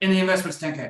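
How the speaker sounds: talking very fast. Acting out someone who drops the price during a pitch, talking so fast. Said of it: "you're talking so fast".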